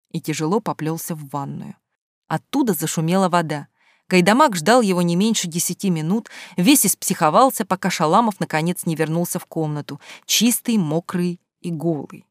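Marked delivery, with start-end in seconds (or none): none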